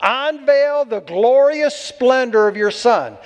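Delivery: slow, drawn-out "Unveil the glorious splendor"; weighty, slow stress on "Unveil" and "glorious"; emphatic reading. Shown as a demonstration. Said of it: "You get the emphasis on this?".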